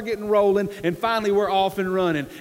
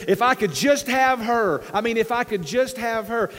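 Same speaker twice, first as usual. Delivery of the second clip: acted longing; 4 semitones higher than usual. Man wishing he could have this woman, longing. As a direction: lean into the wish with stretched words.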